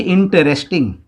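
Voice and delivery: "इंटरेस्टिंग" lightly separated into its syllables. Shown as a demonstration. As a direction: say "इंटरेस्टिंग" carefully, syllable after syllable. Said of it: "उसी तरह से आप बोलिए". ("इंटरेस्टिंग" को हिस्सों में साफ़-साफ़ बोलें)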